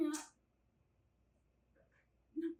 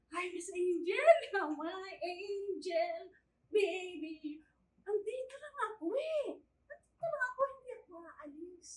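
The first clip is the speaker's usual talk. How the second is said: sugary cooing; 3 dB louder than usual. Acted. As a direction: coo sweetly to your young charge. Yaya sweetly greets her young charge. (malambing na pang-aamo sa alaga)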